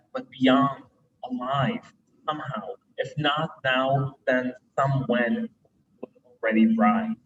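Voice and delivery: deliberate recitation, broken into short phrases; poem reading. Acted. Poet reading a poem written at Mass, measured recitation. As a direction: weigh each image, pausing between phrases.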